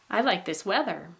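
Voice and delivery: first syllable of "weather" high, second falling; rise-fall on "weather". Shown as a demonstration. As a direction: stress the "wea" of "weather". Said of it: "put the high tone".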